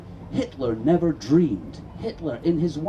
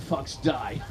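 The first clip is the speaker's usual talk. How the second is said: mock evil laugh; 4 dB quieter than usual. Mock villain gloating.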